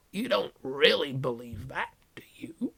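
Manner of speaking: unvoiced, knowing whisper; teasing whisper. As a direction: coax her in a hush. Hagrid taunts quietly.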